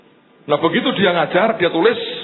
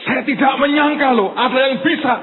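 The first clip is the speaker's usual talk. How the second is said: higher-pitched imitation of an astonished teacher; amazed lecturer; 6 semitones higher than usual. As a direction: voice the teacher's mild disbelief. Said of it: "Kenapa dia kaget?".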